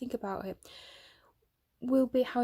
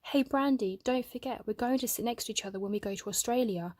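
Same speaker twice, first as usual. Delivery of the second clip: calling out; 2 semitones higher than usual. Acted. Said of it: "I call out".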